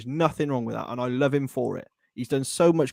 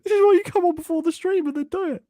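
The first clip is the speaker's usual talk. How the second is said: whispered laughing aside; 4 dB louder, faster than usual. Real, not acted.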